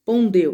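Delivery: "pondeu" said separately, as the rest of a split word; resume with "pondeu" alone after the break; second half after hyphen. Shown as a demonstration. Teacher finishing the hyphenated word, "pondeu" detached and emphatic.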